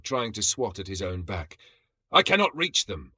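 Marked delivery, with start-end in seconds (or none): 2.1-3.1 high, loud frantic roar; roaring frustration. A narrator's reading. Zargax unable to reach the bugs, roaring high. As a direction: roar it while swatting your back. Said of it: "Zargax roared".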